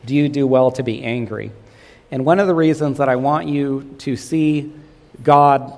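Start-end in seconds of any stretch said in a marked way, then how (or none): 0.0-1.5 gentle. Acted. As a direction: ask it gently, like a caring father. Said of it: "said this gently to him".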